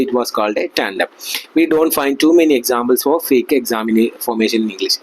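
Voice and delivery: slow, careful reading aloud; very slow classroom read-aloud; textbook reading. Acted. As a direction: read the book passage word by word for the class. Reads textbook passage aloud.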